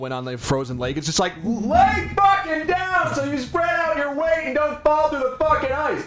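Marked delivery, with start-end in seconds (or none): 1.4-6.1 put-on very high, shrill scream. Retelling what they screamed at the television during a frozen-lake scene: imitating own screaming. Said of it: "I was literally screaming at my television".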